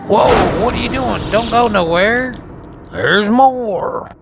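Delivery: loud, high surprised call; excited shout. Real, not acted. Shouting at the passing vehicle.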